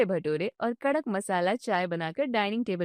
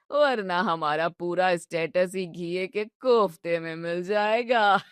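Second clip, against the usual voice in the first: put-on teasing old father-in-law; 4 semitones lower than usual. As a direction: savour every jibe like a mischievous grandfather.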